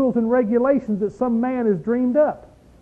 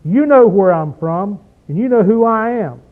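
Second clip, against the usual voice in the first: exclaimed; 5 dB louder than usual. Shown as a demonstration. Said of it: "exclamation point".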